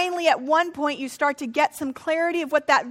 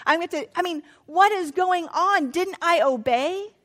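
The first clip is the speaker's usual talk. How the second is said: exasperated complaint to God. Pretend. Abram complaining to God about broken promises, exasperated. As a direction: plead your case, stung and frustrated. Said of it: "I would be sitting there going".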